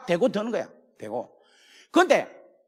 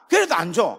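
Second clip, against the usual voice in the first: ordinary talk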